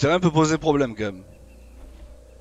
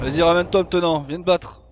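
appel plus haut et plus fort; crie-lui de venir se battre; provocation criée; 5 semitones higher, 5 dB louder than usual. Real, not acted. Provoque le dino adverse. (provocation criée)

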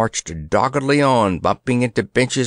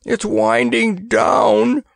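much higher, slow alarm; dismay as it spins; alarmed cry; 11 semitones higher, 3 dB louder, slower than usual. A narrator's reading. Old soldier realizing the stairs go down, alarmed.

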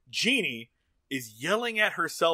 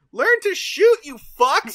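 very high, loud drill-sergeant yell; mock yell; 14 semitones higher, 12 dB louder, slower than usual. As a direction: scream insults at the team. Mirror Genie yells at A-Team.

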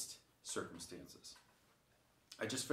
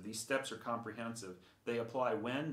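ordinary talk, nothing marked

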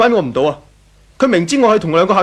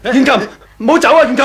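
pleading call; 4 semitones higher, 3 dB louder than usual. Acted. Husband begging wife not leave.

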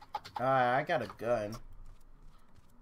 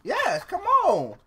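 yelling across the room; 8 dB louder, much slower than usual. Real, not acted. Calling friend downstairs.

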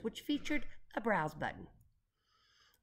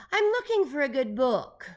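loud, higher-pitched singsong call; raised voice, pitched up; 6 semitones higher, 9 dB louder than usual. A narrator's reading. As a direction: call out from up on high. Eccentric boss calls from flying ladder.

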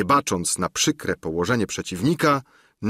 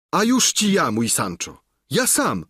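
eager squire; 7 semitones higher than usual. Acted. The squire admits to Sancho who he is: high, eager reply. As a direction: answer brightly, pitched up. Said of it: "odpowie koniuszy".

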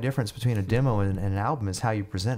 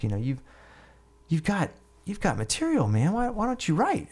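higher-pitched imitation of an earnest buddy; imitated earnest seriousness; 4 semitones higher than usual. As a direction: press him earnestly, as the retold friend. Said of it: "he gets all serious".

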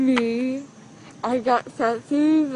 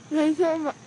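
crying. Real, not acted. Drugged girl upset about teeth.

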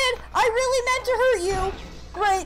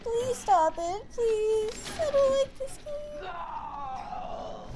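crying; 2 semitones higher, 6 dB quieter, much slower than usual. Real, not acted. Attacked again, crying.

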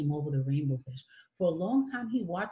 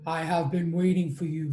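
deep voice; 2 semitones lower, 4 dB louder than usual. Acted. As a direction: speak like an ancient sea creature, low. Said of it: "said the octopus in a deep voice".

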